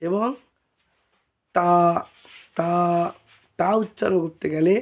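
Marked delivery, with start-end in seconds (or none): 1.5-2.7 তা with tongue tip behind the upper teeth; touch tongue to upper tooth ridge for তা; careful, isolated dental তা; tongue-tip articulation. Shown as a demonstration. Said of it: "উপরের দাঁতের তালুতে লাগবে".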